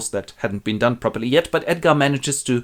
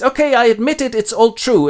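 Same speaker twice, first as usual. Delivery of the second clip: high, loud blurted admission; defeated confession; 12 semitones higher, 7 dB louder than usual. Acted. Beaten Edmund confesses on his knees, high and loud.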